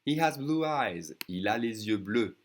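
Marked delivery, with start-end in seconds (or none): 1.3-2.4 les yeux linked as "lay-zyeu"; liaison. Shown as a demonstration. Teacher showing learners how the S connects, liaison. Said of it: "you see how I connect the S".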